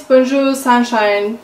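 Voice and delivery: attempted French pronunciation of the product name; bad French accent. Real, not acted. Vlogger naming a bronzing cream, in a bad French accent. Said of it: "Sorry for my bad French accent".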